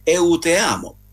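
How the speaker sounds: tentative eu te amo; Portuguese phrase. Shown as a demonstration. Speaker tries Portuguese for listeners, careful. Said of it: "sempre se la pronuncia è corretta".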